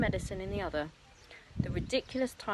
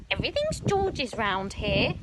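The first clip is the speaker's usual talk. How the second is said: shouting; 4 semitones higher, 4 dB louder than usual. Acted. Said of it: "shouted Grandma".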